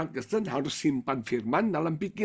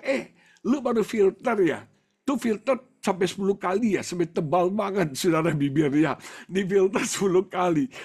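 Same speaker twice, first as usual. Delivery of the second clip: raised, louder mocking friend's voice; imitated teasing; 3 semitones higher, 3 dB louder than usual. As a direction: tease him like a cheeky friend. Voicing the friends' mockery. (menirukan ejekan teman)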